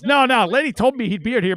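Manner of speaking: high, loud insistence; won't take no; insistent stranger. Retold or imitated. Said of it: "He goes".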